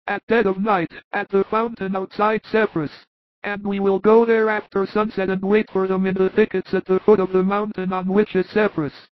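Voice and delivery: high, earnest apostle voice; Thomas's voice. Acted. Thomas proposing a plan to the apostles, high, steady voice.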